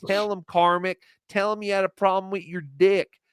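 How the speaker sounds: lightly voiced taunting woman, egging him on; mocking her taunts. Host mimics her taunting Carmack, mild mock needling. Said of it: "she kept going".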